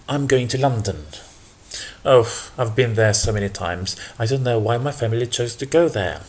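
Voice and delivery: mildly bored and unenthusiastic; understated weary reluctance; not that happy. Shown as a demonstration. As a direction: sound a bit fed up with the trip. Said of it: "If I wasn't that happy".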